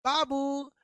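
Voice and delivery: calls out the name loud and clear; one sharp shout to make the echo. Shown as a demonstration. Teacher calling a name out loud to show an echo. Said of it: "ये इको है".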